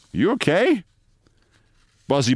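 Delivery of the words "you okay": higher-pitched, alarmed check. A narrator's reading. Vice president checking on his staggering colleague, alarmed. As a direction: ask it with mild alarm, voice lifting. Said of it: "Fresco said with considerable alarm".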